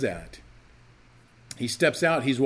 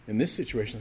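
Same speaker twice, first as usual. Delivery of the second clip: normal talking voice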